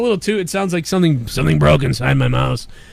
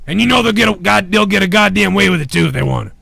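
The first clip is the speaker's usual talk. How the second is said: escalating mock rage; 7 semitones higher than usual. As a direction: work yourself up into a shrieking tantrum. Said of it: "I'm getting angry".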